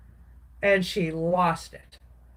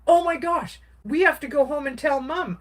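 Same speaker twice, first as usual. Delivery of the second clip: brother panicking over the news; panicked; 7 semitones higher than usual. Retold or imitated. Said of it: "Kelly's freaking out".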